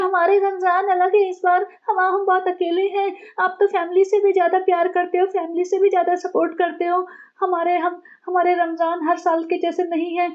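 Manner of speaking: high, whiny self-pitying plea; whiny lonely sister. Retold or imitated. A sister complaining to her brother that she feels alone, high and whiny.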